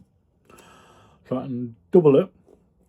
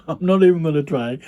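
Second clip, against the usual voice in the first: laughing; 4 semitones higher, 4 dB louder than usual. Real, not acted. Laughs at own mispronunciation.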